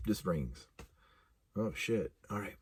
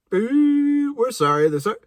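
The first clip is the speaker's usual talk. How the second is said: recorded operator message; 10 semitones higher, 4 dB louder than usual. Retold or imitated. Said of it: "It's like".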